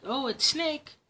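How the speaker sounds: a tiny creature's chirpy call; mouse voice. Acted. Mouse greets Snake, high bright squeak.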